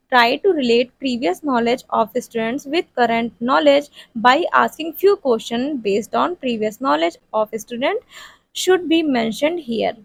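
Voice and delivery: slow, word-by-word dictation pace; dictating notes to a class. Shown as a demonstration. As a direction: read it out slowly so students can write it down. Dictating lesson plan text.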